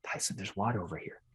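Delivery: soft, low-key call to a passerby; quietly tip someone off, no pushing; hushed offer. Pretend. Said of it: "We just whisper".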